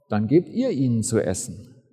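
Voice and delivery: trocken. Acted. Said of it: "sagt ganz trocken".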